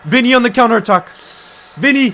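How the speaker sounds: high, loud live commentary shout; excited match call. Real, not acted. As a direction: call out the sudden counterattack. Sudden counterattack during live match.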